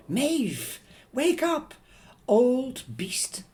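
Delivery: high frantic shout to wake her; panicked mother shouting her child awake; wild cry. Acted. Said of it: "her eyes wild".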